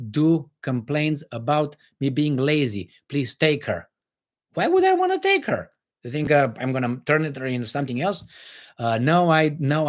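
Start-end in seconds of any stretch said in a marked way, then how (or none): 4.6-5.7 mock disbelief. Joking reply to marriage offer.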